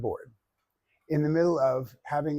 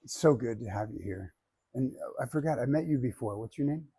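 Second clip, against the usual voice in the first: Wayne Dyer; 2 semitones lower than usual. Retold or imitated. To the workshop crowd, a mild Wayne Dyer-style gentle welcome. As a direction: greet the room like a calm guru, lightly voiced. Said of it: "let's do a little Wayne Dyer".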